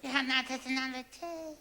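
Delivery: mock trance voice; entranced echo. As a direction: repeat it as if hypnotised. Subject echoes hypnotist in trance.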